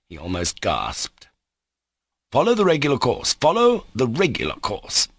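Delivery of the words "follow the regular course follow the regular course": high, anxious insistence; fearfully excited. A narrator's reading. The lawyer to the captain, anxiously excited. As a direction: urge procedure, flustered. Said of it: "cried Nikolai Parfenovitch, fearfully excited too".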